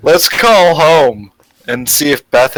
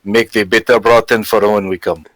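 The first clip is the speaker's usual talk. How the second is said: put-on Russian accent. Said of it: "speak in English in a Russian accent".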